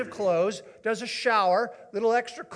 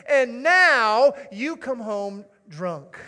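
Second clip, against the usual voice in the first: loud, drawn-out tearful accusation; exaggerated weepy reproach, dragged out; mock sobbing wife; 3 semitones higher, 8 dB louder, much slower than usual. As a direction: wail the last straw slowly, hamming it up. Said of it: "She's sobbing uncontrollably".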